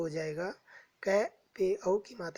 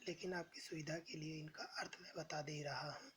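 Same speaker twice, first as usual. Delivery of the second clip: quick whispered aside; 2 semitones lower, 16 dB quieter, faster than usual. Real, not acted. Teacher's quick aside to students.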